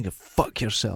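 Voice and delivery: whiny, whining tone with real venom. Retelling a film character's insult to his wife: imitating a whining man. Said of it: "he was whining".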